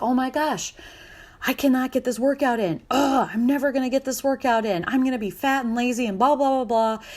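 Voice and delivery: hammed-up self-pity; whiny frustration. Parent missing workouts, whining in mock despair.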